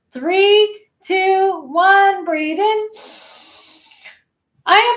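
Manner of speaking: loud, high count-in into a declaration; rallying affirmation. Shown as a demonstration. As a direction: call it out high and strong to rally them. Leads a counted power affirmation.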